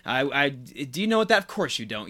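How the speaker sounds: slow, deliberate mock scold. Host replays Frankie telling the Dean he's stupid, slow mock scold. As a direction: drag out each insult with fake pity.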